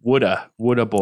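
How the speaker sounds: "Woulda bottle" with the t dropped, "woulda" for water; mock accent. Friend mimics Aussies saying water bottle, a mock accent. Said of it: "both say, "What a bottle".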